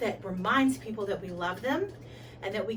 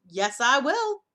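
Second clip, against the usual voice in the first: eager shout; 3 semitones higher, 6 dB louder than usual. Acted. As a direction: leap at the chance. God Kong answers eagerly.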